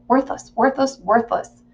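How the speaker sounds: self-reproach. Acted. Berates self in the mirror.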